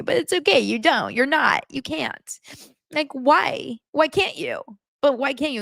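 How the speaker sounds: put-on high, pleading girlfriend whine; whiny Annie. Mocking Annie begging Nick to say he loves her, high whine. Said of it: "And he's like".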